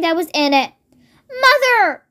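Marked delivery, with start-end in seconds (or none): 1.3-2.1 wailing. Acted. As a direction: wail it in dismay. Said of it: "wailed Missus Cranky".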